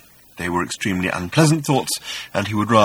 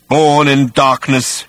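slow, loud rumbling monster voice; 5 semitones higher, 8 dB louder, slower than usual. A narrator's reading. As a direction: rumble it slowly from the dark. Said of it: "rumbled the voice".

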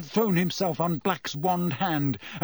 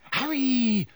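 whimper; 9 semitones higher than usual. A narrator's reading. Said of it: "Hermione whimpered".

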